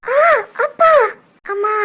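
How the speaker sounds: broken cries with pauses; labour pain. Acted. Woman enduring labour alone, crying out in pain. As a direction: moan through a contraction. Labour pangs getting worse.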